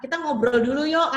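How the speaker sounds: acted mum's invitation; coaxing parent. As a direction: coax your child into a chat. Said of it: "contohnya gini".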